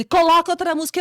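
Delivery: alta e aguda, impaciente; ordem alta. Retold or imitated. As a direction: mande sem discussão. Discussão rápida. (ordem do amigo, alta)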